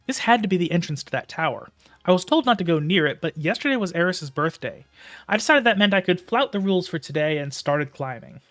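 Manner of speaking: steady storytelling read; story narration. A narrator's reading. Reads the novel aloud.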